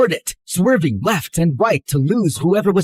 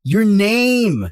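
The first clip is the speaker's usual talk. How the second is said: raised, louder demand for a name; exasperated shout; 5 semitones higher, 4 dB louder than usual. Acted. To D in the car, an exasperated shout. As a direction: snap the word name out in annoyance. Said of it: "Don't yell at me".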